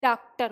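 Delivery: डॉक्टर said as "daaktar" with long aa; डॉक्टर with an open aa vowel. Shown as a demonstration. Teacher shows the aa spelling of doctor, aa vowel. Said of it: "तो ये शब्द हमारा क्या हो गया?".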